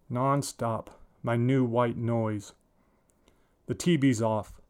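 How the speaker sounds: plain reading voice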